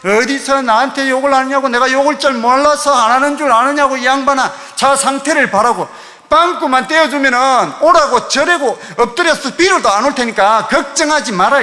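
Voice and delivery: heated comeback in a retold argument; retold shouting back. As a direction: fire back indignantly, as if retelling a row. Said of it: "같이 소리를 막 지르면서".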